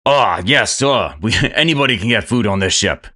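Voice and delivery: a bad French accent with a laugh breaking through; chef's French accent cracking up mid-line; fake French accent, slipping. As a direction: chef barely holds his bad French accent. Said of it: "doing a really terrible impression of it".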